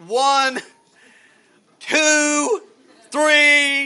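building shout on each number; preacher counting the dips to his congregation, shouting; counting out loud. Acted.

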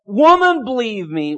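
Jesus to the Samaritan woman, a touch of earnest tenderness; mildly voiced Jesus. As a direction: speak gently but firmly as Jesus. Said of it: "and he said".

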